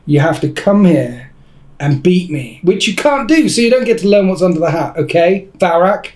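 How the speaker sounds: emphatic, pretend-stern refusal; mock angry. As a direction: lay down the terms to a rival. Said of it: "That was quite angry".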